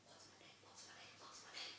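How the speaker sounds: whispered frantic search for the word; panicked whisper. Retold or imitated. Onstage and blanking, a frantic whisper to herself. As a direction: breathe it as if lost on stage. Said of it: "panicked forgetting her line".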